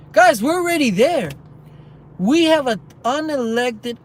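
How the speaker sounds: loud warning to viewers; emphatic warning. Real, not acted. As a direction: drive the point home hard. Political rant warning viewers.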